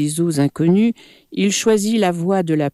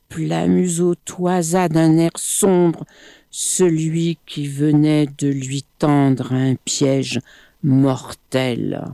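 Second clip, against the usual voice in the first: ordinary delivery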